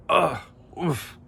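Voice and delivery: high, short groans; groaning. A narrator's reading. Soaked Hippo reacts, high short groans. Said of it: "groaned Hippo".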